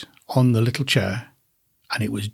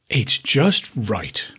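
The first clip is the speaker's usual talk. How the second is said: satisfied whisper; much slower than usual. Acted. Girl tasting the third bowl.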